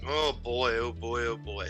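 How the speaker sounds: ordinary delivery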